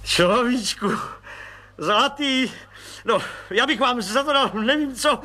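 lavish praise on the little man; gushing, overjoyed colonel. Acted.

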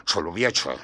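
the judge grumbling over the muscles. Acted. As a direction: grumble under the breath. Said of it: "bručel soudce".

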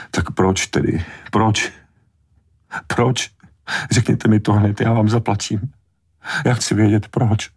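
high, insistent repeated why; desperate demand. A narrator's reading. Mother desperately demanding Brody tell her why. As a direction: press and plead for the reason.

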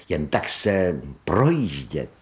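dreamy. Acted. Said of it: "dodala zasněně".

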